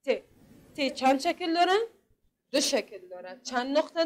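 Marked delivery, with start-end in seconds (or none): 0.0-0.2 crisp isolated t sound; ت said alone and crisp, tongue on the upper teeth; model t sound. Shown as a demonstration. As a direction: model the letter sound for children to repeat. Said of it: "ببینین ت".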